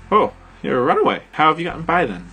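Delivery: put-on a surprised English girl; British accent. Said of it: "she asked".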